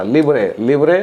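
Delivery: लिवरे carefully pronounced for students; livre said clearly. Shown as a demonstration. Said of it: "L I वी R E".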